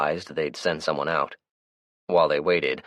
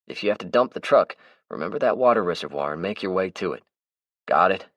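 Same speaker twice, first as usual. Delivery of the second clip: Melvin's voice; 2 semitones higher than usual. Acted. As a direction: play the chatty, easygoing Melvin. Melvin voices his lines.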